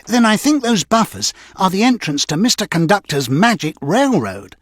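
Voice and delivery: high excited engine voice; bursting with the discovery; Percy, thrilled at his idea, speaks excitedly. A narrator's reading. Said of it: "Percy said excitedly".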